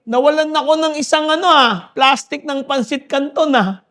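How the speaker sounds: preacher mimics a market vendor griping about stolen noodles, mock complaint; mock complaining vendor.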